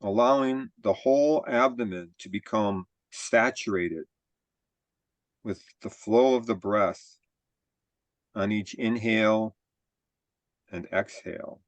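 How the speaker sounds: measured body-scan guidance with long pauses; guided meditation. Real, not acted. Teacher leading a group body scan, calm guided-meditation delivery. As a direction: guide them calmly, phrase by phrase, leaving room to breathe.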